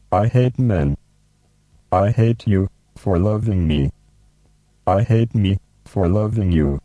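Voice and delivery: firm, deliberate punk poetry reading; poem recital. Acted. Host recites his favourite punk poem to the robot, firm and deliberate. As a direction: declaim each line with weight.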